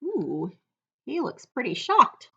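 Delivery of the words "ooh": ordinary delivery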